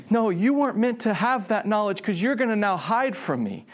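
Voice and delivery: high, pleading lament; anguished sadness. Acted. God knowing man will hide from him, anguished. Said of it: "Like, this is sadness".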